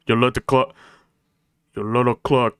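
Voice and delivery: attempted gruff Russian sailor; badly faked Russian accent. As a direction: grumble with a clumsy Russian accent. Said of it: "I cannot do a Russian accent".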